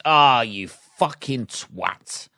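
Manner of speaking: slow, drawn-out mock insult at the windscreen. Shown as a demonstration. Driver at the windscreen, slow drawn-out mock insult. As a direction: stretch it out, mock disgust. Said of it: "front windscreen on a car is".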